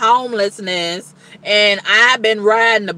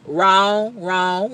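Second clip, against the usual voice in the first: laughing wrong. Real, not acted. Woman mocking her own trust, laughing wrong.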